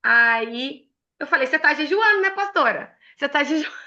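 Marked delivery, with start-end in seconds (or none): 1.5-3.7 teasing question. Retold or imitated. Teasing the pastor at lunch.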